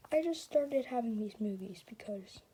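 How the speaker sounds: hushed breathy confession; sad whisper. Acted. Emmett whispers his life story to everyone.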